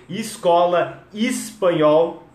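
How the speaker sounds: "Escola, espanhol" drawn out as "iscola, ispanhol"; I-initial words. Shown as a demonstration. Teacher showing the I habit, slow "Escola, espanhol" starting on I. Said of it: "eu tô colocando o I".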